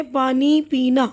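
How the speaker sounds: slow, measured reading of each word; drawn-out teaching demonstration. Shown as a demonstration. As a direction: read each word out slowly for learners. Teacher models reading the listed words.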